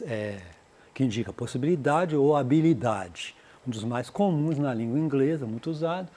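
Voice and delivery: ordinary talk, nothing marked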